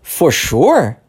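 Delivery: mildly surprised. Shown as a demonstration. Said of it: "meio surpreso".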